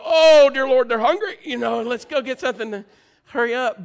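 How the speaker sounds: put-on loud, high, frantic parent at a crying baby; alarmed parent. Parent hearing the hungry baby cry, loud frantic alarm. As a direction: shout it like a panicked parent rushing for the bottle. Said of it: "you go".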